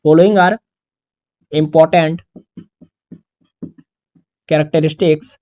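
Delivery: word by word with long pauses; dictation. Shown as a demonstration. Teacher dictates the heading for students to copy, slowly. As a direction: give the heading slowly for copying. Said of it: "following सब कुछ बताऊंगा आपको".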